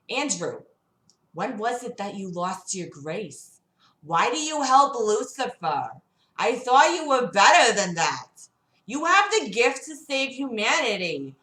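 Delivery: hint of a woman's voice. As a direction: press him as Gamora. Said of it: "she asks".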